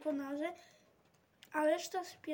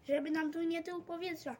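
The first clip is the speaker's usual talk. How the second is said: roaring; 2 semitones higher than usual. Acted. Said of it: "ryczał siwy malarz".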